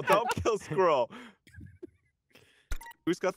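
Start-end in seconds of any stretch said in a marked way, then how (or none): 0.0-1.1 slow, drawn-out plea. Real, not acted. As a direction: stretch every word out pleading. Repeats plea slower.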